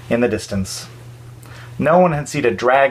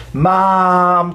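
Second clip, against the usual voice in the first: put-on child yelling; 5 semitones higher, 4 dB louder than usual. A narrator's reading. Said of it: "Cody yelled".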